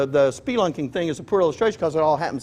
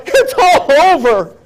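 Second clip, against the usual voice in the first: mock despair; 10 semitones higher, 9 dB louder than usual. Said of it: "look at my buddy and go".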